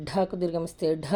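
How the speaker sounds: "ఢ" pushed out with breath; heavy aspirated "ఢ", long vowel; aspirated from the belly. Shown as a demonstration. Teacher showing mahaprana letters, "ఢ" from the belly. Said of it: "పొట్ట లోపల నుండి రావాలి".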